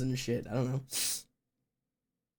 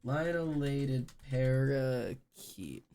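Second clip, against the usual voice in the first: slow, softer careful reading; slow quiet re-read; 2 semitones lower, 4 dB quieter, much slower than usual. Shown as a demonstration. Rereading the bird name slowly, softer, to herself. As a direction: sound it out slowly and softly. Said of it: "Hold on".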